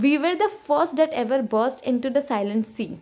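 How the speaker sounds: each word read out slowly to show the repeated sounds; slow poem reading. Shown as a demonstration. Teacher reading a poem line to students, slow and deliberate. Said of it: "Next is".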